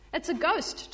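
high startled cry of fright; frightened scream. Acted. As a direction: squeal it like you've seen a ghost. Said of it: "Thomas screamed".

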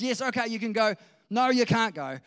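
loud, high yes snapping into a refusal; hammed-up ruler changing his mind; flip-flopping Pharaoh. Acts Pharaoh giving in, then refusing.

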